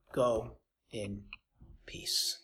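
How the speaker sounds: hushed, soft farewell blessing; tender blessing. Acted. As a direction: send her off in peace. Jesus sends her away.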